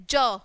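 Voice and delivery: ज as an isolated "juh", not "jay"; phonics sound. Shown as a demonstration. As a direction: sound out ज for young learners. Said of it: "ज बोलेंगे इसको". (ज को अलग ध्वनि की तरह बोलें)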